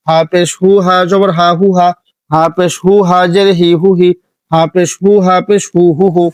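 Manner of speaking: crisp harakat recitation; short vowels, no stretch. Shown as a demonstration. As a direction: show that no vowel is lengthened. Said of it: "দেখছেন কোনোটা টান হচ্ছে না".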